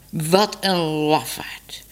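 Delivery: slow scornful whisper; contemptuous whisper. Acted. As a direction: breathe the insult out slowly. Cat scorns the cowardly man.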